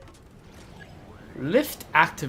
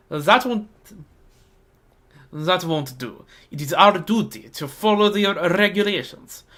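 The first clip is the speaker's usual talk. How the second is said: serious Fatui guy; 2 semitones higher than usual. Acted. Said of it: "the serious Fatuous is, is the guy".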